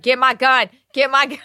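high, loud sleep-talker's order; retold urgent command. Sleep-talking husband thinking intruders took shoes, urgent.

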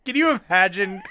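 mock-conspiratorial hushed whisper. Cohost teases the host with a hushed, whispered setup. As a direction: lean in and whisper it like a secret.

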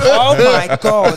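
shrieking laugh, high and loud; cracking up in disbelief. Real, not acted. Shocked by crude quote.

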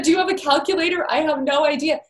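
retelling stunned delight, pitch jumped up; shocked disbelief. Retold or imitated. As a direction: Lynn stunned by the donor's offer, amazed. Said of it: "Lynn was so shocked, just jaw dropped".

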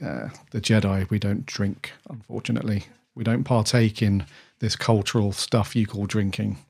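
softly imitating a sober Jedi; measured Jedi reply. Ewan as a Jedi turning down a drink, softly measured.

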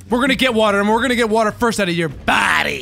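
low menacing threat. Acted. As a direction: growl it like a villain.

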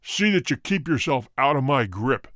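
low menacing snarl; snarled threat. A narrator's reading. Roylott snarls at Holmes before leaving. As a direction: snarl the warning. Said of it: "he snarled".

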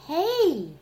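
loud high call; cook's shout. Acted. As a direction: call out to stop her. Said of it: "said the cook".

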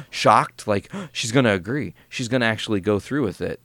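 imitated jubilant shock; shocked delight. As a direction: gasp as if you can't believe the luck.

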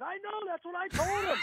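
playful imitation of a weary guard; mock exasperation. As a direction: toss it off like a fed-up lineman. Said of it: "And Alan said".

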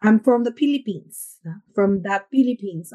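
hard Tagalog-style English, P for the F in Philippines; hard Filipino accent. Shown as a demonstration. Showing the accent people expect of Filipinos, hard Tagalog accent. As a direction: demonstrate a firm Filipino accent, hard consonants. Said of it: "still yung matigas na parang Tagalog".

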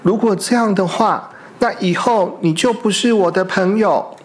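pouting threat, lightly voiced; mildly angry weasel. Weasel threatens to end the friendship, mildly angry and pouting. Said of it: "黄鼠狼很生气地说".

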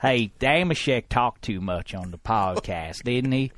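put-on a light take on Wes's accent, slow; lightly voiced Wes gossiping; a hint of Wes's accent, slow and low. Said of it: "Handsome Hank having a conversation with Chris Wesseling".

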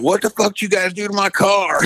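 high-pitched mock outrage at the pranksters; angry outburst, imitated. Retold angry friend confronting pranksters.

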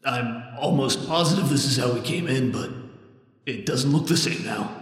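quiet, wary guide voice; hushed cautious scout, unsettled; Lizeth voice. Acted.

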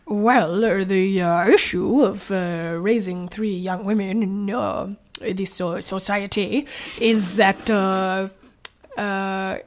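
put-on halting, lightly done generic European accent; Gru. Guest reluctantly answers on raising three girls, rough European-accent impression. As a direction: attempt a French-Slavic accent, haltingly. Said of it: "do your Gru impression".

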